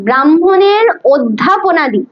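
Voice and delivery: slow, dragged-out ব্রাহ্মণের অধ্যাপনাদি; said slowly. Shown as a demonstration. Teacher slows down for the student writing, slow. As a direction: stretch out ব্রাহ্মণের অধ্যাপনাদি word by word. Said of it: "আস্তে বলি না, আস্তে।".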